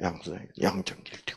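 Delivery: fast, soft whisper under the breath.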